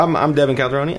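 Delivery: fast. Real, not acted. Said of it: "that went very fast".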